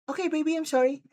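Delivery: high, meek little apology; mock apologetic girlfriend. Girlfriend apologising to upset boyfriend, meekly.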